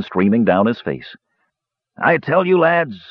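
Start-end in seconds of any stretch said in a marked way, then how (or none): 2.0-3.0 put-on higher, hearty old dwarf. A narrator's reading. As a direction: boom it like a jolly dwarf host. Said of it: "Dugan's voice".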